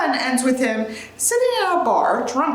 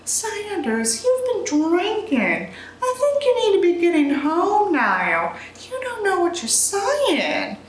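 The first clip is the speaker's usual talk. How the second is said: Josie, sternly; 6 semitones higher, slower than usual. Acted. Josie voiced in play script.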